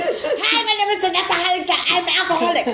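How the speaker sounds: high, laughing mock introduction; laughing mock intro. Introducing herself at an AA meeting, laughing. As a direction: giggle through the AA greeting.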